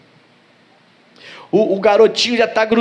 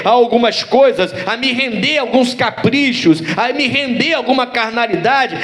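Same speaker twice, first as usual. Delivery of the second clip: raised-pitch, insistent sermon delivery; fervent preacher's exhortation, pitched up; preaching; 6 semitones higher than usual. Real, not acted. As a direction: press each point home to the congregation.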